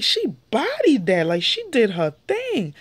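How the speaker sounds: lively mock-impressed reaction. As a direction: hype it up like it amazed you. Her own impressed reaction.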